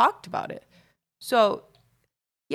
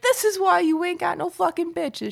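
high mock scolding; imitating Aunt Mickey; 11 semitones higher, 3 dB louder than usual. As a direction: tease him in a high aunt voice. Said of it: "She's like".

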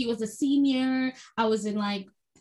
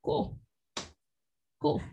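stunned fake cool. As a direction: swallow the hurt, act unfazed. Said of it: "I was just like".

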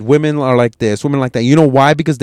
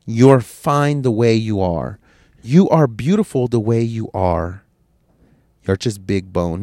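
mock reassuring; 3 semitones lower, slower than usual. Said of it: "Everybody wants to be".

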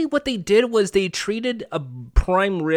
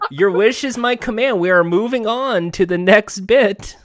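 genie; 4 semitones higher, 3 dB louder than usual. Acted. Genie grants the wish.

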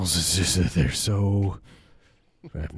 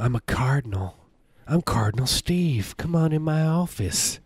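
Cardinal Steve; 5 semitones higher than usual. Acted. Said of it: "I don't like this Steve bit".

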